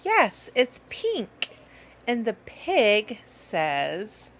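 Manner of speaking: put-on slow, sing-song kid voice; reading to a toddler. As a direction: coax a small child.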